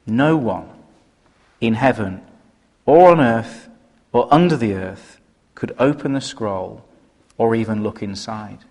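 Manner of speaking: measured Bible reading to the church; scripture reading. Acted. Preacher reading the verse to the congregation, measured. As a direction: read the verse with weight.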